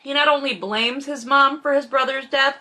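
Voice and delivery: talking while eating; mouth full. Real, not acted. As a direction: speak through a mouthful. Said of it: "I'm hiding my mouth 'cause I'm eating and talking".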